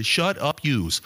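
a hint of Archie Bunker; lightly voiced gruff Archie line. Pastor quoting Archie Bunker, light gruff impression. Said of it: "Archie Bunker would look at people and say".

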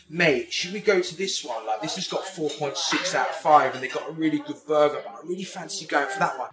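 lightly mimicked dithering diner; imitated keen friend. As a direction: pitch the restaurant like an eager mate. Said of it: "he looks on Google and he's like".

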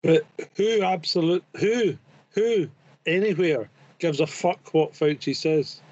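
put-on Cockney English accent. Guest scoffing at what Fauci says, in a Cockney accent. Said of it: "a Cockney there".

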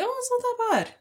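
high, airy brush-off; breezy optimist. Retold or imitated. Shrugging off a bad situation, high and breezy. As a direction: toss it off lightly, sky-high. Voicing her optimistic self.

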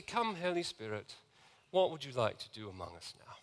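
soft, hushed imitation of a posh British minister; Sandy's gentle British manner. Preacher recalls minister's prayer to the Spirit, gentle British accent. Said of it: "In his very gentle way".

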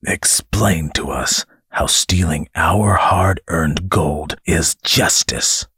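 slow, through gritted teeth. Acted. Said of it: "said through gritted teeth".

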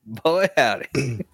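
put-on slow, drawn-out country "Boy, howdy"; hick drawl. Mocking flat-earthers with a slow hillbilly drawl. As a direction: ham up a hillbilly exclamation.

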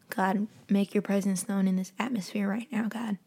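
hushed prayer. Real, not acted.

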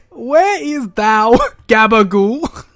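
high, loud, drawn-out fantasy voice; mystical character. Retold or imitated. Cohost seeks gabagool in fantasy speak, hammed-up mystical voice. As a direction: declaim it with mock archaic grandeur. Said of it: "the voice he gave whatever mystical character".

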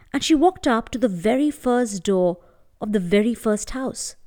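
gentle storytelling voice; story narration. A narrator's reading. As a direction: tell it like a bedtime tale. Storyteller narrating a folk tale.

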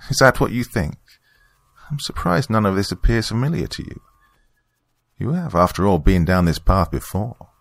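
high, knowing villainess voice; Margaret taunting Marcus. Acted. Church member hinting at a forgotten past, knowing and high-pitched. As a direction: pitch it up, coolly toying with the listener.

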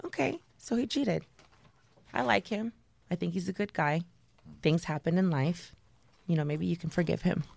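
soft, measured fatherly reassurance; imitating understanding dad. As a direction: retell it quietly, almost timidly reasonable. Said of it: "This was my dad's response".

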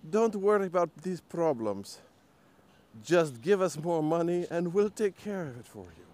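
high, loud mocking official; mock government voice. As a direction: sneer it like a smug politician. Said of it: "and it's like".

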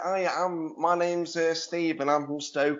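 imitating a nasal Stoke guest on daytime TV; Stoke nasal accent. Mocking a Stoke guest on Jeremy Kyle: light Stoke accent. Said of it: "I heard that Stokey nasal voice".

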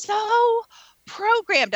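"programmed" pushed high and hard; stress on programmed. Real, not acted. Driving home her point to the host, stressing "programmed". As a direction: lean on "programmed" to land the point.

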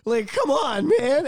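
high-pitched, incredulous protest; worked-up, pleading denial; impassioned disbelief. Retold or imitated. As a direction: retell a heartbroken friend's refusal to believe. Voices Ahsoka's disbelief at Vader.

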